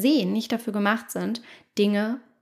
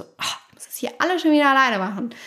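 higher, quicker reproachful complaint, stressing schon; 4 semitones higher, faster than usual. Shown as a demonstration. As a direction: nag like a partner: alles schon wieder alleine. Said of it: "Da ist auch ein schöner Vorwurf". (vorwurfsvoll, schneller, Betonung auf „schon“)

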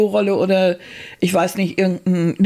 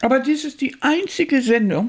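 talking while eating; words around a bite of food; mouth full; 5 semitones higher than usual. Real, not acted. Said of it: "du redest gerade mit vollem Mund".

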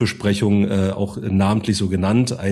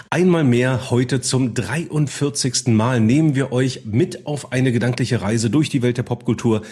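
smooth, cozy radio presenter; radio host voice. Acted. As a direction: welcome listeners like a cozy DJ. Mock radio host intro.

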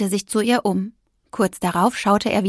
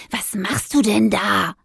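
slow, whispered hiss; hissing cat. Acted. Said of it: "fauchte er". (Kater faucht erschrocken)

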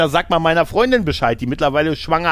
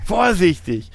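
mock Connery warning; 6 semitones higher, slower than usual. Repeating Connery's warning line.

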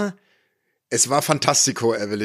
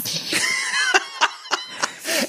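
shrieking laugh; 3 dB quieter than usual. Real, not acted. Reacts to a joke about a famous singer.

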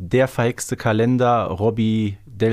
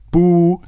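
mock boo; 7 semitones higher, 8 dB louder than usual. Booing the wrong guess.

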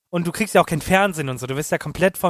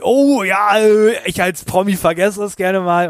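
excuse voice; 3 semitones higher, 3 dB louder, slower than usual. Retold or imitated. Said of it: "Und dann sagen die".

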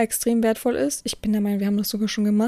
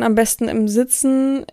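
ordinary talk

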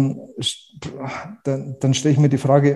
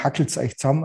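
hackelt's euch zusammen in broad Bavarian dialect; 3 dB quieter, faster than usual. Shown as a demonstration. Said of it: "bayerisch sagt man".

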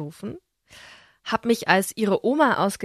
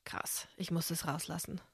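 breathy whisper, far softer; 4 semitones lower, 17 dB quieter than usual. Real, not acted. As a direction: confide it in a whisper. Confessing revenge urge.

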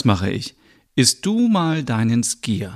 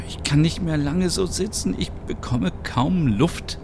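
short of breath; 6 semitones higher than usual. Acted. Cramped hiding, short of breath.

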